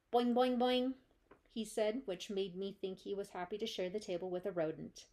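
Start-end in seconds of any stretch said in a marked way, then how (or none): 0.1-0.9 loud bouncy boing calls; boing like a cheerful frog. Acted. The frog Og answers.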